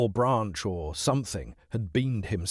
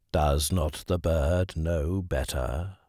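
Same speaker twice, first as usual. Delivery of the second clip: low, slow, proud bird; measured stern voice; deep slow hawk; 5 semitones lower, slower than usual. Acted. Hawk speaking.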